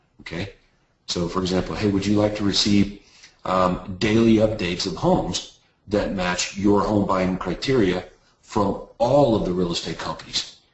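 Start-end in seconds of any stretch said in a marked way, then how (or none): 8.4-10.0 emphasis landing on the word all. Coaching how to ask about daily home updates, stress on all. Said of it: "so you put emphasis on all".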